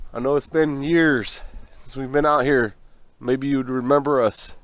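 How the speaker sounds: calling out to spirits. Pretend. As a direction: address the ghosts solemnly.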